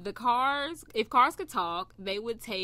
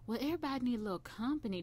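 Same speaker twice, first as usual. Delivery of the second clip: imitating grandfather; 3 semitones higher, 5 dB quieter, faster than usual. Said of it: "That's how my grandfather talks".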